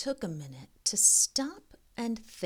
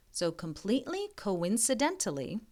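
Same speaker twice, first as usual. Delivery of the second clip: fast now it's learned; 4 dB quieter, much faster than usual. Shown as a demonstration. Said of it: "so many big words here".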